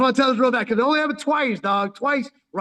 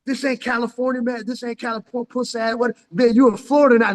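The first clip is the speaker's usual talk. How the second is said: mocking bully taunt; 3 semitones higher than usual. Bully mocking Cali kid.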